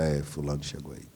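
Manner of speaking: soft, low knowing murmur; knowing mother. Retold or imitated. Mother hearing her child's steps at the gate, soft and knowing. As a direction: say it like a mother who just knows.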